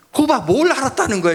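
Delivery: high, pushed wife's comeback; wife catching out her husband, voice shooting up. Retold or imitated. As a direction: play the wife pouncing on him. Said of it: "아내의 톤이 올라가면요".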